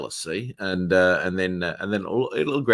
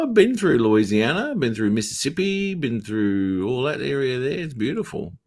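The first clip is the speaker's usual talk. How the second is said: enthusing; 5 semitones higher than usual. Real, not acted. Enthusing over places he has visited.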